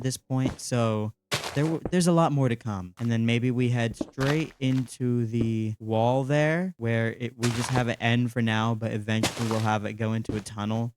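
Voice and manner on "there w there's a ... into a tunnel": slightly muffled, stuffy voice. Real, not acted. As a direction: talk a little muffled, like under the weather. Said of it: "Apologies if my voice sounds a little muffled".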